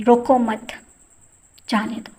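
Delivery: "روکو مت" said together, long pause, then "جانے دو"; two separate sentences. Shown as a demonstration. Teacher reads out two short sentences, pausing between them. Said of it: "دو الگ جملے ہیں".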